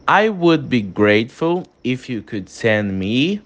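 slow, careful tune rising on "send me"; polite request intonation. Shown as a demonstration. Teacher models a request to a superior, polite intonation. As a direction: stretch "I would be grateful", lift at "send me". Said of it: "teve uma mudança de entonação".

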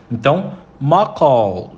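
macaw with the tongue curled back on the final L; English macaw with curled tongue. Shown as a demonstration. Teacher showing students the tongue curl, careful demo. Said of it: "você dobra a língua".

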